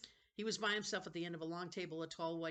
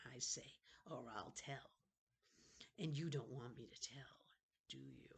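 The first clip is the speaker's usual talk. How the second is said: taunting hiss. Acted. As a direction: hiss a threat so no one else hears. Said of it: "lowered his voice to a taunting hiss".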